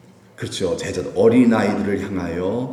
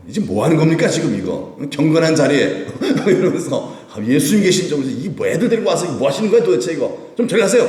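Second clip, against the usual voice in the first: loud, raised voice of annoyed disciples; scolding disciples; 5 semitones higher, 3 dB louder than usual. Retold or imitated. Disciples scolding the parents with babies, loud and annoyed. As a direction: shoo them away, irritated.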